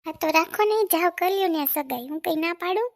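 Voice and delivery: jealous girlfriend mocking his engagement; angry sarcasm. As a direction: spit it out sarcastically. Girlfriend sarcastically tells him go.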